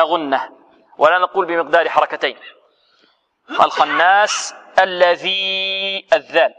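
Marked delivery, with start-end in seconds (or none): 3.5-6.1 الخناس الذي drawn out, heavy خ and nasal ن; slow recitation demo. Shown as a demonstration. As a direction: chant slowly, stressing the thick kha. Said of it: "الخاء مفخمة".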